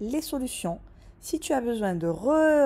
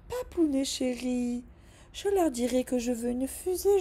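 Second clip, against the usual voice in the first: coaxing daughter; 5 semitones higher than usual. Acted. Girl coaxing her dad.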